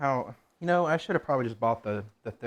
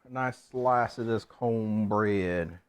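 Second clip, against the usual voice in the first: slow savoring; 3 semitones lower, much slower than usual. Real, not acted. Savoring the cornbread.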